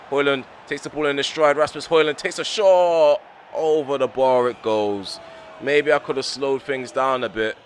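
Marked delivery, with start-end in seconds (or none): 0.1-5.2 rising, louder, slowing as the shot flies; excited shot call. Real, not acted. Manager calling Højlund's shot, excitedly louder. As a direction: call the chance as it happens, then groan.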